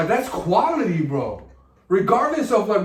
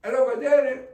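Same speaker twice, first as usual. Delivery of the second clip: higher-pitched Spanish game-show host; Don Francisco; 5 semitones higher than usual. Shown as a demonstration. Comic retrying the impression in Spanish, higher emphatic host voice. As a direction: announce like a TV host, raised and emphatic. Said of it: "work with my Don Francisco".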